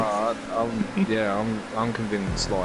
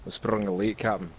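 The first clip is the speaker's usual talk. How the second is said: Scotty. Acted. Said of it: "Try and do Scotty from".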